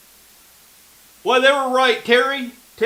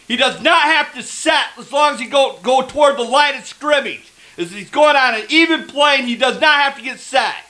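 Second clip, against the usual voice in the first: outrage. Real, not acted. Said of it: "Sorry about that outrage".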